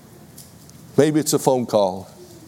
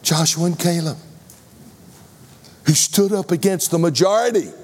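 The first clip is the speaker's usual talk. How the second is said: rousing praise; 7 semitones higher than usual. Acted. Preacher lifts heroes' names.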